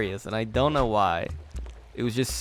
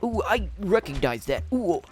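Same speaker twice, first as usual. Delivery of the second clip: airy mock wonder, pitched up; mock impressed viewer; 6 semitones higher than usual. Mocking viewers who love any reference, in airy wonder. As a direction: play the easily pleased viewer. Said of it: "everybody to be like".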